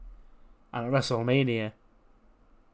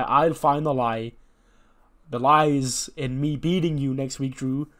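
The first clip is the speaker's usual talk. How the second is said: defiant Bobby; 3 semitones higher, 6 dB louder, slower than usual. Retold or imitated. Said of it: "Bobby goes".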